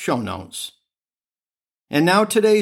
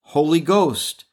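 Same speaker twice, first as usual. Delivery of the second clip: steady prayer cadence, each response falling; spoken litany. Acted. Host leads listeners in the litany, steady prayerful cadence. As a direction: lead the litany like a prayer at Mass.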